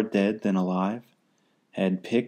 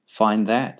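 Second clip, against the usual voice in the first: louder, sneering eagle; sneered; 5 dB louder than usual. Acted. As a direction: spit it out with contempt. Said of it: "sneered the bird".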